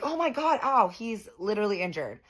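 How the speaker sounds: imitating him whining about being hurt; a hint of a wounded man wailing; mock whiny wail. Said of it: "He's like".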